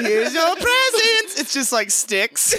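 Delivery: high, slow, hammed-up Santa; bad German Santa. Santa impersonator handing out presents, high drawn-out voice. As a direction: present them grandly in high mock German.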